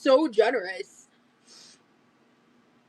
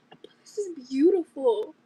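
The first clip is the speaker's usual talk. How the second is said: whispered, reverent, unvoiced; awed whisper. Real, not acted. Admiring the gift crystal in a hushed whisper. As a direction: breathe it out in awe.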